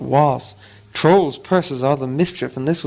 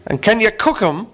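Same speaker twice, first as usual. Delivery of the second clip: troll voice; 7 semitones higher than usual. Acted. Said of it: "said Tom".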